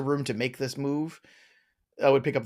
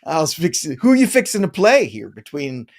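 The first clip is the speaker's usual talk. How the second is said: mock Southern drawl; 7 dB louder than usual. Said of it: "full Southern on me".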